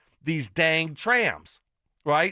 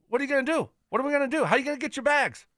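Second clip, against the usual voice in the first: ordinary delivery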